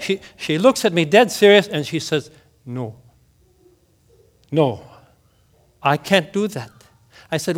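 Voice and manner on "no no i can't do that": soft refusal. Retold or imitated. Mildred refusing communion.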